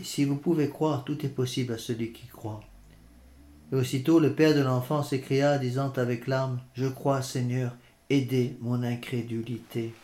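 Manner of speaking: measured scripture reading aloud; lecture d'Évangile. Real, not acted. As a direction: read the Gospel out formally to listeners. (lecture posée de l'Évangile à voix haute)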